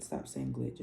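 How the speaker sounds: booming low God voice, quietly; deep voice of God. Retold or imitated. Astrology vlogger voicing God telling her to stop. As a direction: speak as God correcting her.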